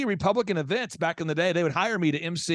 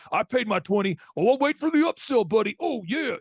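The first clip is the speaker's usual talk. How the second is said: mock Macho Man biker, higher on "upsell"; jeering biker; 4 semitones higher than usual. Host imitating a taunting biker at his event. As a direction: sneer it like a wrestler on a Harley. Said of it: "He goes".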